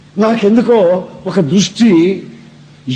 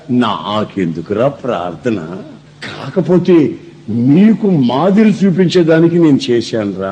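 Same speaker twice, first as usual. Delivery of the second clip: Jesus explaining; 6 semitones lower than usual. Retold or imitated. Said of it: "ఆయన ఏం చెప్తాడు తెలుసా".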